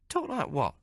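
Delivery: a streetwise barmaid teasing the hero; Maggie's voice. Acted. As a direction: play her worldly and mocking. Maggie answers Hawk.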